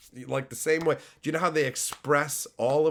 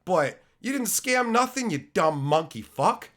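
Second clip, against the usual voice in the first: mock rant; 4 semitones higher than usual. Real, not acted. Ranting insult at chatter.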